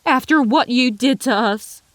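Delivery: furious reproach; fuming outburst. A narrator's reading. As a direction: throw the hurt back at him. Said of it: "she fumed".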